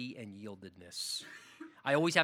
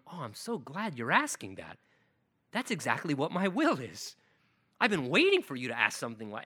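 glad Father; 3 semitones lower than usual. Acted. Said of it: "'Cause the Father's going".

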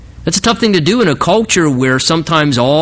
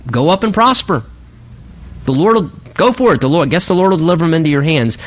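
mocking sarcasm; faster than usual. Prophet humours the king about battle, mockingly sarcastic. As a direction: send him off with mild sarcasm. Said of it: "some mocking sarcasm in Micaiah's voice".

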